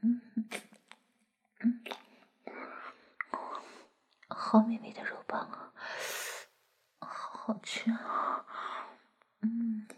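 talking around a lollipop; words through a mouthful of candy; sucking a lollipop. Acted. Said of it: "我嘴里含着棒棒糖的声音".

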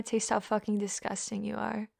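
ordinary delivery

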